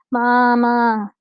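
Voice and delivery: high, loud wail of Mama split in two long syllables; distressed toddler cry. Acted. Baby rat wailing for its mother, distressed cry. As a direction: call out like a frightened little child. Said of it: "break that word into two long syllables".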